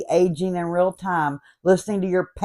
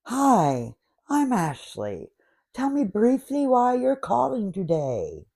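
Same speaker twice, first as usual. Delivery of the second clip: robot voice; 3 semitones higher, 4 dB quieter than usual. Retold or imitated. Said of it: "robot named Ashley".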